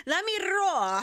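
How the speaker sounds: "roll" with a trilled R, high and playful; "roll" said as a big rolled "rro". Shown as a demonstration. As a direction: trill the R in "roll" and leave the end open. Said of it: "Roll the R".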